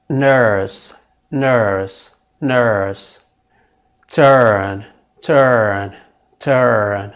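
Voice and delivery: bird, nurse, turn with drawn er vowels; er word drill. Shown as a demonstration. Teacher drilling er words for students. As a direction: repeat each word with a long er. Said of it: "try these words before I say them".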